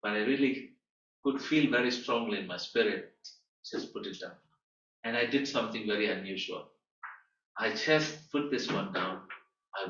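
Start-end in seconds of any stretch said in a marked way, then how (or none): 3.7-4.3 hushed whisper; soft whispered prompting; whispered inner voice. Retold or imitated. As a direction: breathe it like a quiet nudge from within. Inner prompting in his spirit.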